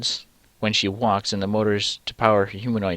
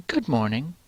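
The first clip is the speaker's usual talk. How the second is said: robotic voice; 4 semitones higher, 3 dB quieter than usual. Shown as a demonstration. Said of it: "like a robotic good mo".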